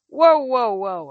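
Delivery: calming. Acted. Percy calming Grover.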